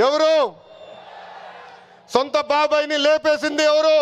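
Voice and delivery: shouted questions. Real, not acted. Party leader to rally crowd, demanding who did it, shouting. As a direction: raise the pitch and shout each ఎవరు to the crowd.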